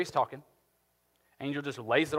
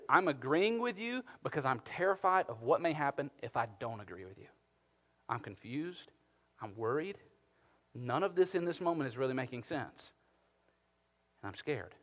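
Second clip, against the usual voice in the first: fearful confession; 3 dB quieter than usual. Retold or imitated. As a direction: quietly admit being scared. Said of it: "This is".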